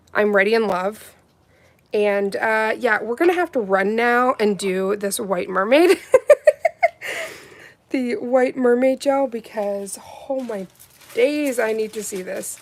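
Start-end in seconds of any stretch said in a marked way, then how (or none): 6.0-7.4 shrieking burst of laughter; giddy high laugh. Real, not acted. Thrilled by the white mermaid gel, a shrieking laugh.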